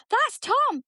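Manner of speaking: put-on high kid voice; imitating her son. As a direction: say it brightly like a proud boy. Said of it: "And he went".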